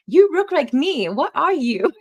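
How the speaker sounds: high, loud, slow mock Asian accent; exaggerated Asian-accented exclamation; terrible Asian accent. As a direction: imitate the doctor's astonishment in a hammed-up Asian accent. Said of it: "I get to do the accent. It's terrible".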